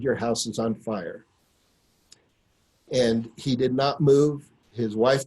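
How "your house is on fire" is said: quiet, calm statement of fact; hushed and steady, letting it land; calmly. Retold or imitated. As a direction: tell him evenly, no panic. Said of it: "calmly, I said".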